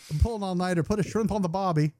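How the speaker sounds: bad Australian accent. Host joking about an Australian herf invite, bad Australian accent. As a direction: do a deliberately terrible Australian accent. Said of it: "That's the fucking worst Australian accent ever".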